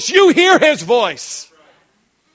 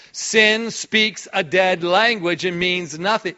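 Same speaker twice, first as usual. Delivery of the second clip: slow, deliberate; 5 semitones lower, slower than usual. Shown as a demonstration. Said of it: "keep on saying it".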